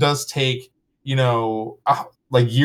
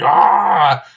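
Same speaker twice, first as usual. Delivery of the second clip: loud, drawn-out "ah"; retold cry of abandon; 2 semitones higher, 6 dB louder than usual. Speaker recalling being swept along, crying out. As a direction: let out a long mock-ecstatic aah. Acts out overwhelmed reaction.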